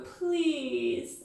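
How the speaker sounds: a drawn-out begging please; light pleading. Shown as a demonstration. Wife begging husband, mild plea. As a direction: plead gently. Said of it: "And then we go".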